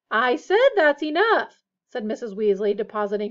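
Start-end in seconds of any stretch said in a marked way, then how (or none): 0.1-1.6 loud, higher, slow reprimand; exasperated scolding. A narrator's reading. Missus Weasley silences her sons, exasperated. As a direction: lay down the law word by word.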